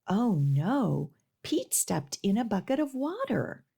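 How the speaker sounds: lively storybook reading for little ones; reading to children. Acted. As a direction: read it like story time at the library. Reads picture book to children.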